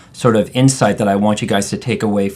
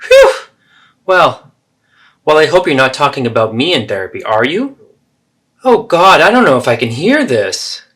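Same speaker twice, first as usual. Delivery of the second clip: higher, louder, fast self-pitying protest; dramatic mother; 5 semitones higher, 5 dB louder than usual. Acted. Mother hearing about therapy, dramatically self-pitying. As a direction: make it all about yourself, aghast. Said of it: "So there you have the three role plays".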